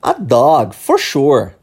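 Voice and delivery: "A dog, for sure" with a firm falling finish; falling intonation. Shown as a demonstration. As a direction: model "for sure" clearly, tune falling. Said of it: "eu repito pra você repetir".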